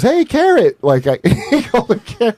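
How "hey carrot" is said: imitating Taylor. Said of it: "he goes".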